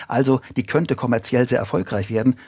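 lightly stressed "könnte", as a caveat. Real, not acted. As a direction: put the weight on "könnte" to mark the doubt. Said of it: "Betonung liegt auf könnte". (Betonung auf „könnte“)

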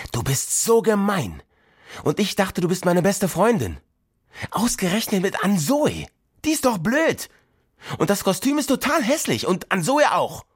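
put-on high, furious child's rant; raging. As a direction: rage at her friend through the door. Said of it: "wütete los".

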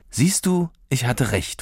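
triumphant little cheer; pleased. Acted. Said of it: "freute sich Anne".

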